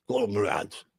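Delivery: a lightly put-on Russian accent on "Comrades."; Russian-ish accent. Imitating friend John greeting comrades, Russian-ish accent. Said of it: "He goes".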